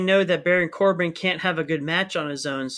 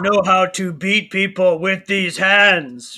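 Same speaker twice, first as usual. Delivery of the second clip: slow, louder gruff growly Braun; lightly done hammed-up Braun growl; Braun Strowman impression; 5 dB louder, much slower than usual. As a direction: growl it like a monster wrestler. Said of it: "Best Braun Strowman impression".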